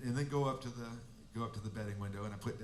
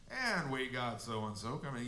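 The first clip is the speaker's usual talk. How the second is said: lackadaisical announcer; 2 semitones lower than usual. Retold or imitated. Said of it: "real lackadaisical country track".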